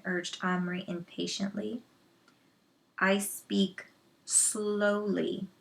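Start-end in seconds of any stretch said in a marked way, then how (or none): 3.0-5.5 very slow, deliberate grunt; halting slow warrior speech. Acted. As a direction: drag each word out gruffly. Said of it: "grunted the miniature Indian".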